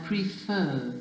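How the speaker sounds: "prefer" stressed on its falling second syllable. Shown as a demonstration. Teacher repeating for the class, "prefer" with stress on the second syllable. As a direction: land on the end of "prefer". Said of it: "You can hear the stress".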